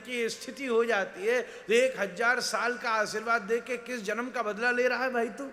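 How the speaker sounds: indignant scolding. Retold or imitated. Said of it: "महाराज जी बड़े गुस्सा हो गए".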